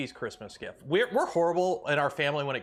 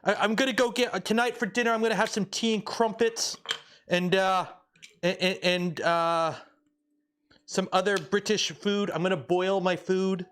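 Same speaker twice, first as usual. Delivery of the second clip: put-on British character accent; 3 semitones higher than usual. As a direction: play at being British. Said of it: "get into character".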